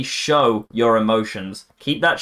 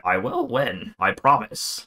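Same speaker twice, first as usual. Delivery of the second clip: put-on motivational reel voice; mock sigma-male audio; slower than usual. Imitating Sigma male reels on Instagram, mock motivational voice. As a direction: mimic an overdramatic Instagram quote voiceover. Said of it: "got some gay little audio over it".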